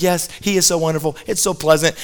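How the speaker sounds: a touch of mock-pleasant contentment; pleasant wife. Happy wife agreeing with her husband on a drive, mildly pleasant. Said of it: "his wife is so pleasant".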